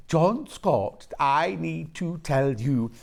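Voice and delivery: put-on slowly drawn-out Black Country accent, lightly done; a hint of a mumbled Black Country voice; slow mock Black Country. Retelling a Black Country producer, slow mock Black Country accent. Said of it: "you have to go".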